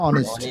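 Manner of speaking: অনেস্ট ending in "-nist"; corrected pronunciation. Shown as a demonstration. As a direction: model অনেস্ট with a short i in the second syllable. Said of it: "উচ্চারণটা হবে অনেস্ট।". (অনেস্ট, "অ-নিস্ট" বলে শেখানো)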